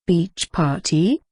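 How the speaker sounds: slow, distracted question. Seth caught off guard by the beach party, slow and distracted. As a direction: drift off mid-thought as you ask. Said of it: "he asked, distracted".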